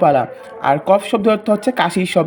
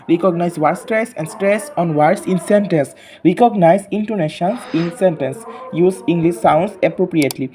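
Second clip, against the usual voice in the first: very slow textbook reading, word by word; reading aloud; much slower than usual. Acted. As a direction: spell the English out slowly for young pupils. Reads objectives slowly to class. (খুব ধীরে ধীরে পাঠ পড়া)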